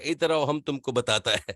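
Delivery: playful mock Pashto-accented Urdu; lightly hammed Pathan speech. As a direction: imitate a Pathan's broken Urdu grammar. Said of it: "जैसे पठान बोल रहा होता है".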